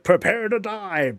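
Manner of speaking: hammed-up villain line; menacing gnome. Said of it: "He's like".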